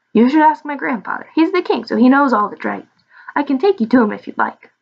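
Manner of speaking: lightly voiced, lilting dragon; eager little dragon. Little dragon offers to lead them to grandfather, lightly eager. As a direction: offer help with a hint of creature voice.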